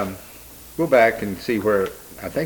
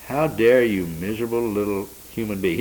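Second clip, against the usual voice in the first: mildly scolding, a raised opening; indignant rebuke; 3 dB louder than usual. Retold or imitated. Angel to doubting humans who disbelieved his word, mildly indignant rebuke. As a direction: voice an angel's stern reproof, with restraint. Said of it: "there is a bit of ... correction here".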